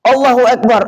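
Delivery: shouting the takbir. Retold or imitated. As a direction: cry it out over the valley. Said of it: "berteriak kami".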